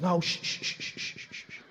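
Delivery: hushing, fading to a breath; calm him down like a baby; shushing that trails into silence; soothing shush. Acted. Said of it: "He goes".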